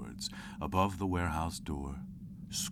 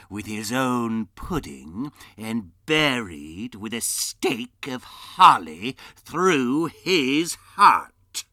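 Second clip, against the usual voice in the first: indignant building to a roar; 3 semitones higher, 7 dB louder, slower than usual. Acted. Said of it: "said Scrooge indignantly".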